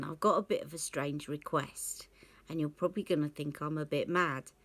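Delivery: a hushed, sheepish whisper; whispering shyly to the makeup artist; whispered confiding. Retold or imitated. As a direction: lean in and whisper the strange request. Confiding an odd request to assistant.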